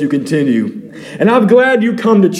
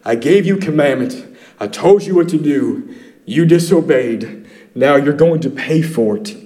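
stern angel voice; 4 semitones lower than usual. Retold or imitated. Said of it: "The angel of the Lord comes down to tell them the bad news".

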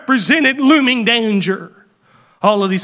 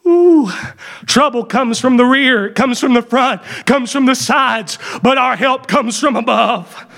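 fervent preaching; 2 semitones higher than usual. Acted. Preacher tells the congregation God is personal help, fervent. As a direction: rise into full fervour, slowing on need.

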